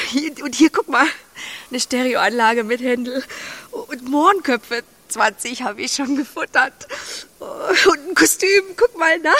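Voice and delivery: eager and bright, showing off; excited. Acted. Emma shows Max what she bought in town, excited. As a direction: show off every treasure.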